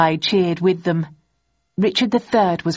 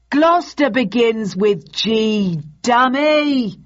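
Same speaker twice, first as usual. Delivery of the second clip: raised, mocking heckle; audience yell; 5 semitones higher, 3 dB louder, slower than usual. A narrator's reading. Audience correcting the actor, yelling. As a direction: call it out, rising on the insult. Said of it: "the audience yelled out".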